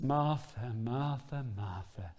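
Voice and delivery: slow her down tenderly; gentle calming. Retold or imitated. Jesus calming busy Martha, gentle and fading. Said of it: "you can almost feel the way he says it".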